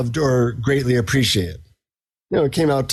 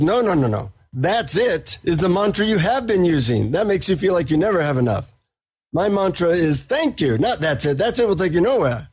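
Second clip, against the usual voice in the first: lightly imitated guru, Indian accent, raised pitch; 3 semitones higher than usual. Guru scolding a disappointed seeker, Indian accent. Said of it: "he says in his Indian accent".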